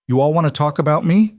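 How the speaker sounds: calling out loud and clear. Acted. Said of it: "her voice loud and clear".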